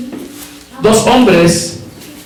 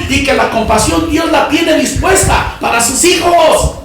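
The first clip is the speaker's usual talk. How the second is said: impassioned, sustained preacher's delivery; preaching; 11 semitones higher, 4 dB louder than usual. Real, not acted. Preacher telling the brothers God speaks simply, impassioned preaching. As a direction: drive each phrase out to the congregation.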